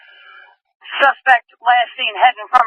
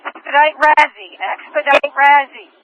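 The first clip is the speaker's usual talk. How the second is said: higher, slow, insistent urging; urgent call; 6 semitones higher, 3 dB louder, slower than usual. Real, not acted. Dispatcher pushing units to expedite, urgent and raised. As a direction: press every unit to hurry.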